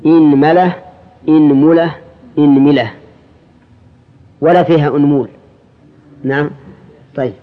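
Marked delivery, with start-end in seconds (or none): 0.1-0.8 إنملة said "inmala", i then a; i-a vowels. Shown as a demonstration. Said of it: "كسر الهمزة". 1.3-2.0 إنملة said "inmula", i then u; i-u vowels. Shown as a demonstration. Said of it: "كسر الهمزة". 2.4-2.9 إنملة said "inmila", i on hamza and mim; i-i vowels. Shown as a demonstration. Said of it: "كسر الهمزة".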